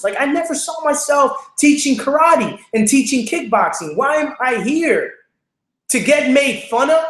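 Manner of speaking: a hurt, exasperated lament up high; despairing inner complaint. Retold or imitated. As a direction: relive the moment you wanted to quit. Retold despair during the class.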